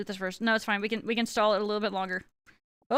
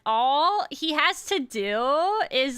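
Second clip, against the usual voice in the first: put-on drawn-out valley girl filler talk; much slower than usual. Shown as a demonstration. Streamer interrupts the video for viewers, lightly voiced valley girl. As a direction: stretch the words like a valley girl. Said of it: "also do the Valley Girl".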